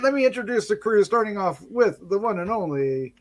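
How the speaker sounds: ordinary talk, nothing marked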